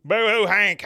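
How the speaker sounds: loud, high mock jeer; hammed-up teasing "boo hoo"; mocking taunt. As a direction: jeer it out to needle a buddy. Acting out friends teasing Hank.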